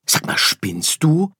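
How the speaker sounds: high, loud protest; little star objecting in outrage; outraged call. Acted. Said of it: "rief Sirius". (laut und hoch empört rufen)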